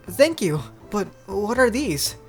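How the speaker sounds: high, slow character voice; young Noi. Acted. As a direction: pitch it up and take it slowly. Voicing Noi in dialogue.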